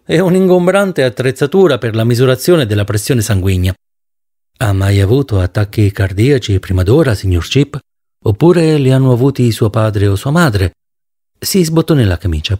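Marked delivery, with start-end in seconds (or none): 4.6-10.7 lower, calm physician voice; doctor speaks lower, calm and polite. Acted. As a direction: soothe the patient as his doctor. Doctor character voice.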